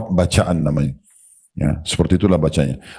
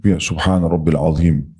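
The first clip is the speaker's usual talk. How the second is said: slow demo recitation; 3 semitones lower than usual. Shown as a demonstration. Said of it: "Satu misalnya".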